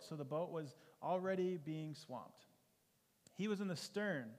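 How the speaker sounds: measured, earnest Bible reading; scripture reading. Acted. Preacher reading Mark four to the congregation, earnest scripture reading. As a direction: read the storm passage to the congregation.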